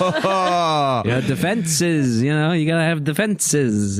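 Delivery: proud tinkerer showing off; chirpy gnome voice. Acted. Gnome explaining his carriage.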